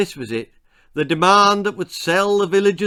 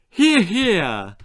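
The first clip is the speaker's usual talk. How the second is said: loud, higher rallying cheer; tub-thumping; 6 semitones higher, 6 dB louder than usual. A narrator's reading. Missus Cluck rallies the crowd, loud and high. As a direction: bang the drum for it. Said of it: "tub thumped Missus Cluck".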